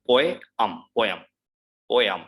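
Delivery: po-em ending in um; poem repeated; poem drilled. Shown as a demonstration. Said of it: "um sound in the end".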